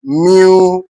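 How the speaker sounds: "immunity" syllable by syllable, with long gaps; split into syllables. Shown as a demonstration. Teacher putting the word in syllables, syllable by syllable. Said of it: "put this particular word in syllable".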